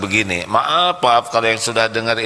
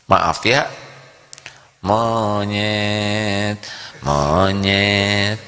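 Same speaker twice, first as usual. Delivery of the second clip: insulting tone; 2 semitones lower, much slower than usual. Shown as a demonstration. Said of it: "Nada juga itu berefek loh".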